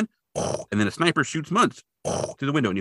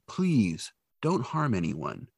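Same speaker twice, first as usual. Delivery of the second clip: slow, softer calming plea; soft pleading; 7 dB quieter, much slower than usual. Retold or imitated. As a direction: talk a gunman down gently. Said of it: "And he's like".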